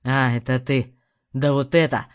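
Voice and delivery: low, loud furious reply; angry outburst. A narrator's reading. Husband raging to his wife, low loud fury.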